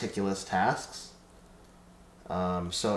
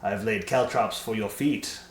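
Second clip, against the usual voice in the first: slow gloating villain with a cackle; hammed-up evil mastermind gloat; sneering panto villain; 4 dB louder, slower than usual. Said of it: "Be like".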